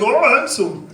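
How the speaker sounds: drawn-out Minnesotan attempt by a Brit; mock Minnesotan accent. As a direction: put on a bad, slow Minnesotan accent. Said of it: "try to sound like a Minnesotan".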